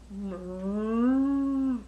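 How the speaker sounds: cow moo. Pretend. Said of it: "A cow".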